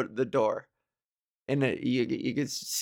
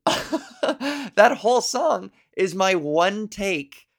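laughing through the words; 5 semitones higher, 3 dB louder, much slower than usual. Real, not acted. To listeners about her one-take solo, laughing. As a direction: chuckle as you admit it.

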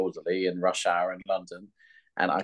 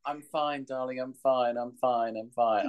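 stiff upper lip; 3 semitones higher, 5 dB quieter, slower than usual. Retold or imitated. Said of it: "Very British".

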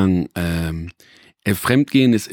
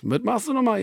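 high-pitched, softer questioning relative; imitated grandma on phone; 11 semitones higher, 5 dB quieter than usual. Grandma on the phone asking about his job, imitated. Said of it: "So funktionieren Telefonate mit Oma".

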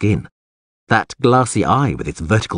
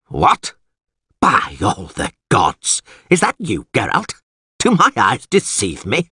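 lightly voiced alderman, taken aback; blustery alderman, astonished. Alderman spotting an old acquaintance, astonished.

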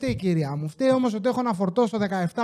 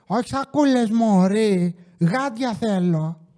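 with that attitude; slower than usual. Retold or imitated. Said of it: "με τέτοιο ύφος".

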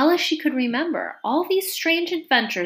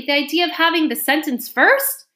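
high, loud indignant protest; 7 semitones higher, 5 dB louder than usual. A narrator's reading. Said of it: "said Alice loudly".

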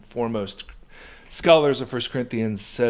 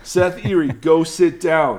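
playful scolding; 4 semitones higher, 5 dB louder than usual. Real, not acted. Scolding husband during tickling.

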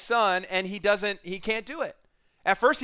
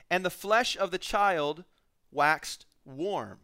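slow, measured reading with long pauses; Scripture reading; slower than usual. Real, not acted. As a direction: read the verses deliberately, phrase by phrase. Reads Scripture aloud to the congregation.

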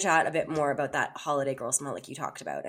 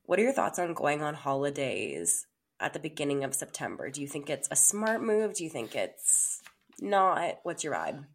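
slightly toned-down sultry voice; smooth and unhurried, a little less sexy; sultry narrator. Pretend. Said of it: "let me just dial it back a bit".

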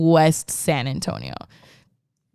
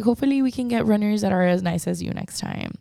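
put-on sweet old lady; 3 semitones higher, 3 dB quieter than usual. Old lady thanking runner.

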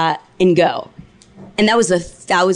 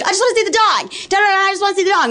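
much higher, whining plea; mock whiny plea; 12 semitones higher, much faster than usual. Imitating the intruder begging to see the dog, high and whiny. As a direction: whine it like the crazed intruder. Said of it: "She's like".

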